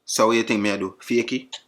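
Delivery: insisting in a hammed-up Jamaican accent; mock-offended patois, swearing it's real; fake Jamaican accent. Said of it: "Is this a real accent?".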